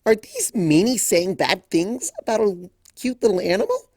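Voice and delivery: gasping. A narrator's reading. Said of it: "Pinkie gasped".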